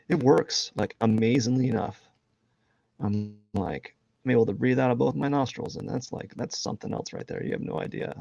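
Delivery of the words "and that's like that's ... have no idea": hushed whisper to the viewers; secretive whispered aside. Real, not acted. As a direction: lean in and whisper it.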